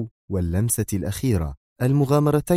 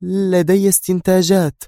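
stern; 11 semitones higher, 4 dB louder than usual. A narrator's reading. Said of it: "انعقد حاجباها في شدة".

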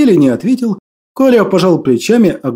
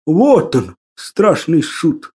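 bitter; much slower than usual. Acted. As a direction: weigh each word bitterly. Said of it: "горько сказал воскресший".

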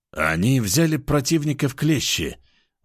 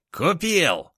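laughing; 7 semitones higher than usual. Acted. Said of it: "смеялся енот".

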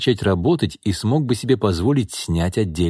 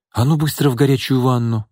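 commanding; 4 semitones higher than usual. A narrator's reading. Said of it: "распорядилась Настя".

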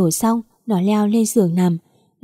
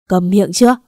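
furious warning; 5 dB louder than usual. Acted. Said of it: "mặt đỏ bừng bừng".

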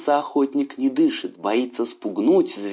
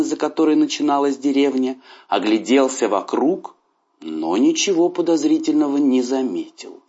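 ordinary delivery

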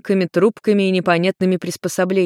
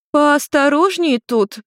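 put-on drunk mother scolding her son for the smashed stool; indignant shout; 9 semitones higher, slower than usual. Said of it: "возмутилась Нарико".

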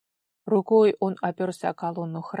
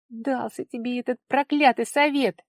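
near tears; 5 semitones higher, 6 dB louder than usual. A narrator's reading. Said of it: "едва не плача".

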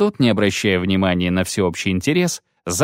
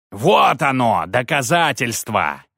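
higher triumphant shriek; priest shrieks; 3 semitones higher than usual. Acted. Priest shows the bone to the crowd, shrieking. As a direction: screech it out in triumph. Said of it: "верещал жрец".

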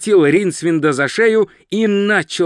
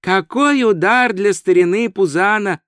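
higher tourist voice, lamenting; sympathetic tourist; 4 semitones higher than usual. Acted. Tourist pities the landlord, higher sympathetic voice. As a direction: pity the landlord, pitched up.

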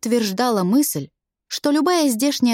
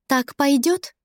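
snide; 4 semitones higher, slower than usual. Acted. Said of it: "ехидно выдавила улыбку Изелла".

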